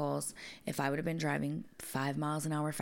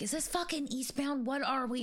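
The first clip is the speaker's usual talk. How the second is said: mock frantic yell; 9 semitones higher than usual. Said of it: "I scream at these men".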